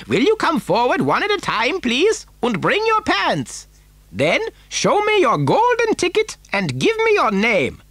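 very high-pitched, exuberant welcome; theatrical high-voiced showman; excitable host calling out. A narrator's reading. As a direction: call out gleefully to a group of guests. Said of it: "he called out".

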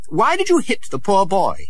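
high indignant question; mild prince's anger at the guard; angry prince. A narrator's reading. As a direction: scold the soldier for hitting. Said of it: "and he was angry".

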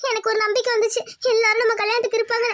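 a touch of crying in a restrained voice; tearful. Acted. Woman telling her partner her hope has gone, mildly tearful. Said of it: "அழுகாத முதல்ல நிறுத்து".

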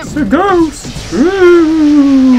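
high, slow, hammed-up "it's a ghost"; mock fright at a passer-by; mock startled ghost alarm. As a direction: play it spooked, drawn out. Spots a ghost in the game.

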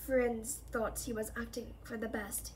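a hint of weary gloom; gloomy voice. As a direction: say it with resignation. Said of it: "he said in his gloomy voice".

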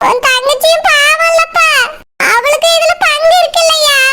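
tearful, wavering complaint; crying. Acted. Mother complaining to her son about his wife, crying. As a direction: complain through tears. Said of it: "ஏம்மா அழுதுட்டு இருக்கீங்க?".

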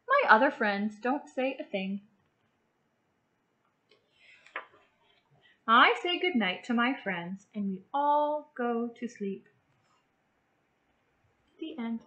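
bright, even storybook read-aloud for little ones; gentle classroom story reading; reading to children. Acted. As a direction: read it like a picture book to a class. Teacher reads picture book aloud.

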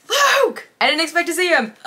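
high, loud cry of surprise; startled outburst. Real, not acted. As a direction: blurt it out loud and high, caught off guard. Startled by Luke's appearance in book.

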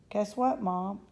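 bursting with news; excited. Acted. Girl bursting in to tell her mother the news, excited.

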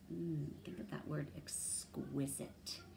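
whispered, slowing down on exquisite; soft whisper. Shown as a demonstration. Teacher whispering a vocab word to her listeners. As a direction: breathe out exquisite slowly. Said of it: "teacher stressing vocabulary word".

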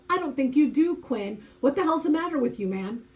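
high, loud and fast angry rant. Acted. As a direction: let the anger spill out quickly. Paul confronts Quinn, face screwed up.

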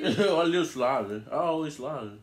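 talking with a pinched, droopy lip; clothespin on lip. Real, not acted. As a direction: speak around a clamped lip. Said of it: "Your lip droopy".

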